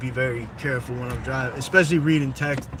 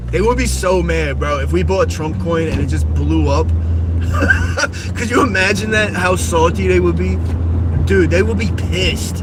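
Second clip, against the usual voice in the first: louder, gleeful rant; excited; 3 semitones higher, 5 dB louder than usual. Real, not acted. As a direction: hype yourself up about it. Excited about trolling kids.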